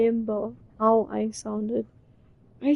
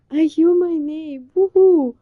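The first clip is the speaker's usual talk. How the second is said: excited cheer; 3 semitones higher, 9 dB louder than usual. Retold or imitated. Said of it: "you are like".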